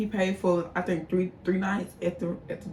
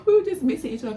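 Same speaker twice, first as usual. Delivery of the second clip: laughing; 9 semitones higher, 4 dB louder, faster than usual. Real, not acted. Laughing at her own story.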